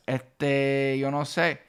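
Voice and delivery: "este" drawn out slowly, thinking aloud; hesitant filler. Shown as a demonstration. Teacher showing how to sound Puerto Rican. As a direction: stretch este before answering. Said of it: "just be like".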